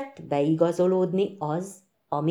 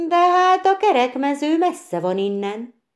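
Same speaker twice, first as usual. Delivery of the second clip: higher, louder exclamation of surprise; exclaiming; 9 semitones higher, 5 dB louder than usual. A narrator's reading. Bréki to the travellers, exclaiming in surprise. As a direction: cry out that it is far. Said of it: "kiáltott fel Bréki".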